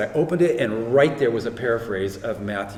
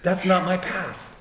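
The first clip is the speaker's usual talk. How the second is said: higher-pitched, insistent retelling; retold firm refusal; 7 semitones higher than usual. Son explaining he won't go to college, retold insistence. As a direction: act out a mild, higher-voiced protest.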